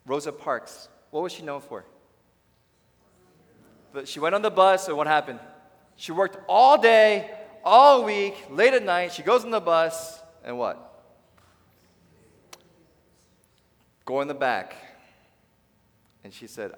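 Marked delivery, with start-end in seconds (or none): 3.9-14.8 louder, higher preaching build; full-force preaching. Acted. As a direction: thunder the story to the crowd.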